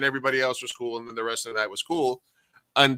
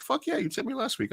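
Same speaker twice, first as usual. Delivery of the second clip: mock retort; 14 semitones higher, 5 dB quieter than usual. Retorting to a customer.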